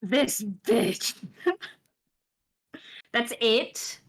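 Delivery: loud, amused outrage with a laugh; laughing disbelief. Real, not acted. Reacts to sister's short message.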